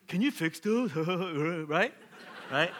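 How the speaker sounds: pushy, high-pitched plea; eager nagging. Retold or imitated. Homeowner piles requests on the handyman, eager nagging. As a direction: pester the handyman, high and loud.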